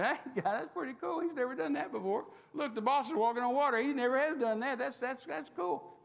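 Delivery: high, bright, gleeful chatter with a laugh; excited angels. Acted. Angels nudging each other, amazed and laughing. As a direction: marvel like a delighted onlooker. Angels marvel at Jesus walking.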